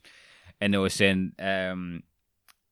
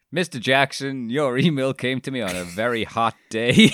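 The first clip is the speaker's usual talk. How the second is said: put-on Southern American accent; 3 semitones higher than usual. Imitating Laurie's email to Peter Jackson in a Southern American accent. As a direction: read the letter in a gentle Southern American accent. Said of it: "love that style of American".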